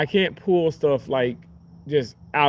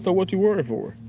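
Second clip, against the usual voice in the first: mom voice; 6 semitones higher than usual. Retold or imitated.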